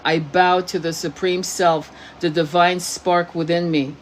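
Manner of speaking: slow, solemn affirmation; measured, deliberate phrasing; mantra recitation. Shown as a demonstration.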